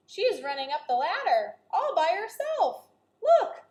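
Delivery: rising to a loud high shout; excited. Acted. Annie pointing out Peanut on the ladder, building to loud excitement. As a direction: build up to a thrilled cry.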